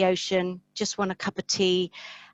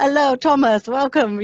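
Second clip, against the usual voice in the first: terrible fake Mediterranean accent, high and raised; 6 semitones higher, 8 dB louder than usual. Describing a supplier welcoming Thomas and the guests, in a terrible Mediterranean accent. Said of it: "can't do a Mediterranean accent".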